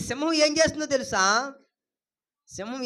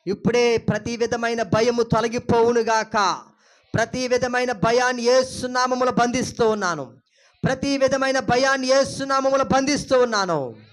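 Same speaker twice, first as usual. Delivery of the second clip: loud, sustained declaration; ringing pulpit declaration; forceful prayer command; 6 dB louder than usual. Real, not acted. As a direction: command it out with full conviction. Preacher commands fear to leave.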